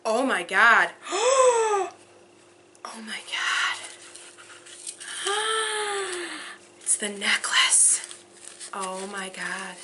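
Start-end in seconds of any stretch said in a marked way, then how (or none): 1.1-9.8 high sharp gasps, then a slow whisper; real astonished gasps; gasping whisper. Real, not acted. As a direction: overcome with delight. Finding the necklace.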